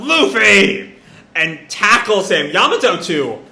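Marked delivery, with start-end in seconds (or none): 0.0-1.0 raised, higher call of a name; mock yell. Momo spotting Luffy on shore, mock yell. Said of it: "yells out".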